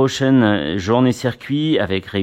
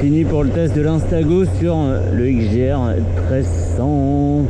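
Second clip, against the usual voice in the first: inside a motorcycle helmet. Real, not acted. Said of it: "dans le casque".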